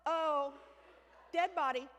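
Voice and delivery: repeating dead body in a hushed alarm; mild mock fright; mock panic. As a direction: sound spooked, like a kid seeing a ghost. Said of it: "made me go".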